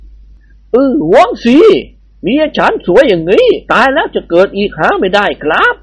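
lightly voiced Indian bandit; Indian babu voice. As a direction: play the amused bandit babu. Babu character voice.

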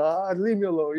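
mock sulky baby. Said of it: "I'm such a baby".

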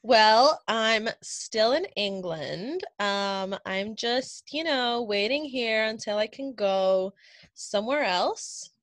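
put-on American accent, taken slowly at times. English cohost says where she is, in a put-on American accent. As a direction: sound convincingly American. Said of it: "your American accent is just impeccable".

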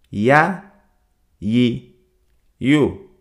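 "ya, yi, yu" each syllable set apart by pauses; syllable drill. Shown as a demonstration. Teacher drilling the letter ya's sounds for listeners, slow and clear. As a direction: drill "ya, yi, yu" slowly, one at a time. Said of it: "Repito una última vez".

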